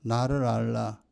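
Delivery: slow, rising divine command, lightly voiced; God commanding people to know him. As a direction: lay it down slowly as God's word. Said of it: "하나님은".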